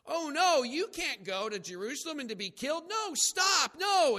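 high, loud panicked objection; alarmed protest. Retold or imitated. Peter protesting to Jesus, high loud alarm. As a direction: cry out to stop him.

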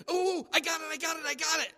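high, loud eager blurting; eager shout. Retold or imitated. Disciple raising his hand, eager loud shout. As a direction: blurt it out like a know-it-all student.

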